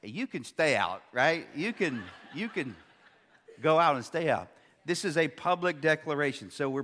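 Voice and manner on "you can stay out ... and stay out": wife teasing. Retold or imitated. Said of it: "She would be like".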